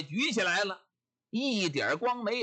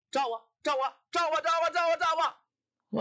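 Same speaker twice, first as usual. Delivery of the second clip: a wife throwing a tantrum, goading him; shrewish taunt; 6 semitones higher than usual. Acted. 泼妇撒泼般挑衅地喊：照我. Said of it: "撒起泼来了".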